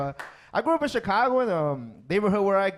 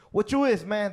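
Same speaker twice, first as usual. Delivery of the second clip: mock gang yell; 4 semitones higher than usual. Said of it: "They all started yelling at me".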